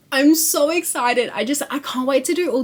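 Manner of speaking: excited squeal. Real, not acted.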